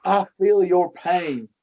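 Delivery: slow, folksy pandering politician; Bill Clinton impression. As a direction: lean in with soothing fake empathy. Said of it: "This is Bill Clinton".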